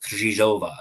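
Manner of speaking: Krzyzhova with a rolled R and a Z sound; rolled R name. Shown as a demonstration. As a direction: roll the R in Krzyzhova, then a Z sound. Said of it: "a rolled R with a Z sound".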